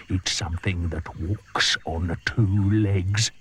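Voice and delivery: slow, sinister hint; sly crocodile. Acted. The crocodile hinting to the hippo, sly.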